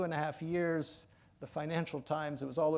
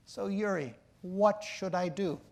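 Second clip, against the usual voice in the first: weary; 4 semitones higher, 3 dB louder, slower than usual. Retold or imitated. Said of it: "in a weary tone of voice".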